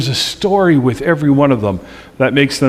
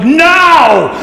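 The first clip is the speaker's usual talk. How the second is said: higher, louder laughing "Now!"; the Marine grandma snapping an order through laughter; firm command; 12 semitones higher, 6 dB louder than usual. Retold or imitated. Grandmother ordering the squirming baby still, loud laughing command. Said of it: "and she goes".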